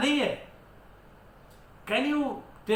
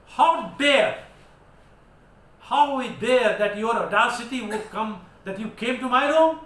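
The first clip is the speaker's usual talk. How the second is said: teacher acting out an indignant rebuke; mock indignant scolding; 5 dB louder than usual. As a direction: play the outraged host catching an intruder.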